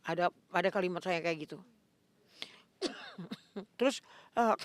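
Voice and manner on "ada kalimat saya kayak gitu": ordinary talk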